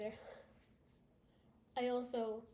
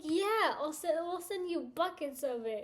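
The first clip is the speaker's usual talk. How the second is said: eager company rep; 4 semitones higher, 3 dB louder than usual. Pretend.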